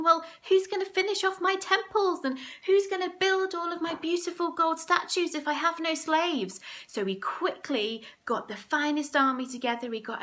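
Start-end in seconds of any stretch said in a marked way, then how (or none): 0.0-6.6 higher, fretful king wondering aloud; a pacing king asking who will build his statues; fretting Pharaoh. Acted. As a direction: play the pharaoh in a worried rising voice. Pharaoh voiced, pacing, worried.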